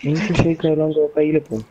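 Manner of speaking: game system voice. Acted.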